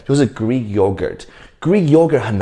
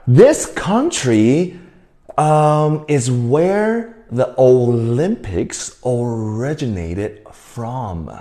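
slow clear teacher read; much slower than usual. Shown as a demonstration. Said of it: "我刚刚说什么".

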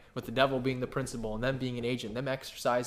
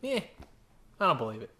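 Doubting Thomas; 8 semitones higher than usual. Retold or imitated. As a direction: hold out like a skeptic insisting on proof. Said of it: "He says".

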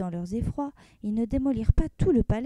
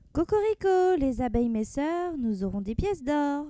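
cheerful cry; 3 semitones higher than usual. Acted. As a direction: crow happily in triumph. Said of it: "s'écria gaiement le coq".

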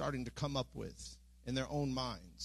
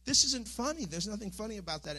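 higher, upset retelling of the dream protest; distressed protest; 6 semitones higher than usual. Retold or imitated. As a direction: confront the laughing crowd, voice raised. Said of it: "I kept saying".

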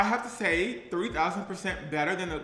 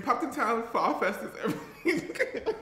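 higher, breaking into a laugh on the last word; 5 semitones higher than usual. Real, not acted. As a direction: crack up as you finish. Cracks up in mock confession.

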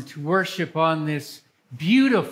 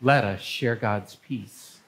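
measured, solemn worship leading; liturgical reading. Acted. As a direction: lead the congregation's prayers.

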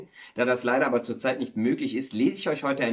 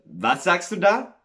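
louder, higher, slow astonished question; 5 semitones higher, 4 dB louder, slower than usual. Acted. Miller questions his neighbour's news, astonished. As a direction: stretch the question out in disbelief. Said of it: "fragt der Müller erstaunt".

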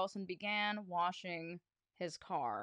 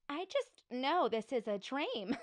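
lightly voiced teacher, a little higher, half-crying joy; amazed teacher; 4 semitones higher than usual. Teacher marvels at the good boys, lightly voiced amazement. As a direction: marvel in disbelief.

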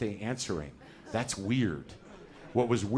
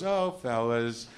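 slow, mock-shocked "oh, fellas"; drawn-out mild surprise from a stranger's voice; a lightly voiced shocked co-host; baffled woman again; much slower than usual. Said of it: "a voice I don't know goes".

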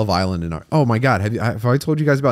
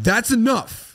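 fed-up caveman; 12 semitones higher, much slower than usual. Retold or imitated. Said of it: "people were like".

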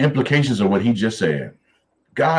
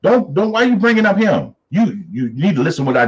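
high, raised, incredulous rebuke; exasperated God; 7 semitones higher than usual. Retold or imitated. God scolding Abraham for bringing up Ishmael, high and raised. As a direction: scold him for bringing up the wrong son. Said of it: "He's like".

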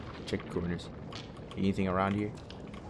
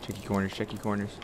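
hushed mutter; 6 dB quieter, faster than usual. Real, not acted. Sneaking, muttered to self.

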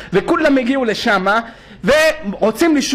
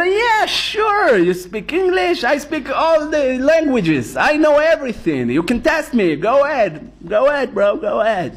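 confident Joseph; 3 semitones higher, much slower than usual. Acted. Joseph boasting to Pharaoh that he knows all languages, slowly. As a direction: brag calmly, slowly. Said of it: "זה לא".

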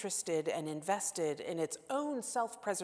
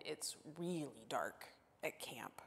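hushed campfire-story whisper, much softer; spooky whisper; 6 semitones lower, 11 dB quieter than usual. Acted. Preacher to congregation recalling dark camp nights, whispered. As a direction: lean in and whisper it like a ghost story.

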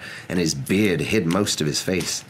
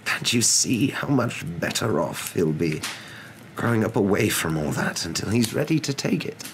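higher-pitched, measured, earnest wizard; earnest wise wizard; 8 semitones higher than usual. A narrator's reading. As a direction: reason earnestly as an old wizard.

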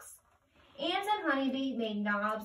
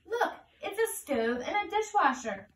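put-on Old Man Spider voice; 8 semitones higher than usual.

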